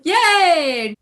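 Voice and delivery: high-pitched little cheer; happy cheer. Real, not acted. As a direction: celebrate a small win. Cheers getting one for free.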